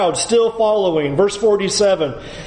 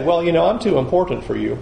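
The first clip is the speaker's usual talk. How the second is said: pompous; 4 semitones lower than usual. Pretend. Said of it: "Jesus doesn't say".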